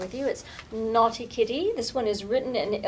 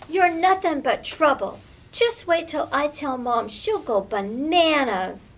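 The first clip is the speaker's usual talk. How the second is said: threatening scold; 4 semitones higher, 6 dB louder than usual. Acted. Lily threatening to tell Mom.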